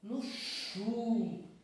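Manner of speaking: "chu" drawn out after a short "no"; stress on chu. Shown as a demonstration. Teacher showing pupils the tonic syllable, stressed "chu". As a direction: lean long on the syllable "chu". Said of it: "A sílaba tônica aqui vai recair".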